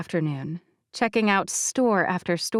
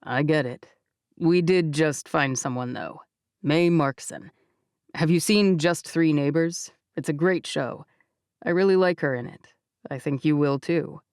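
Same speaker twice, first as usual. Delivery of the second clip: The speaker's voice; 4 semitones lower than usual. Acted.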